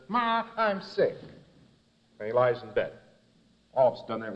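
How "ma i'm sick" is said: higher, slow pleading; whiny sick boy. Retold or imitated. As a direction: fake being ill for mum. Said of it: "so he says".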